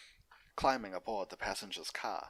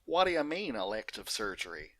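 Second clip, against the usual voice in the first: Applejack demanding; 3 semitones higher, 6 dB louder than usual. Acted.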